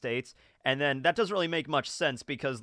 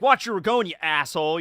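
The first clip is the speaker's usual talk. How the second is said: mock angry yell; 6 dB louder than usual.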